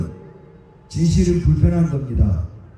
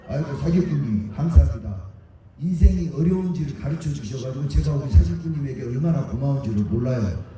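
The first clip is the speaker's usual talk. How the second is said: lower, softer sarcastic thanks with a laugh in it; mock grateful fawning; 5 semitones lower, 3 dB quieter than usual. Speaker mocks victims thanking a swindler, sarcastic fawning. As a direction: thank the swindler with exaggerated false humility.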